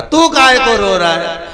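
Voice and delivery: a touch of hammed-up sobbing; mock crying son. Son cries over his father, loud and hammed-up. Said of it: "बेटा रो रहा था".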